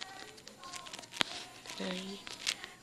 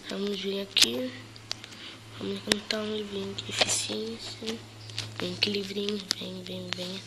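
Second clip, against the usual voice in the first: sore throat voice. Real, not acted. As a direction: hold back, throat hurting. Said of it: "eu estou falando baixo por causa eu tô com dor de garganta".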